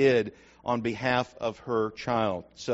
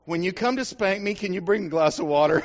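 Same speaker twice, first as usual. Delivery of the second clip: put-on higher, innocent little-kid voice; small boy asking his mother for water before the spanking; child's request; 5 semitones higher than usual. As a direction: ask sweetly like a small boy. Child's punchline.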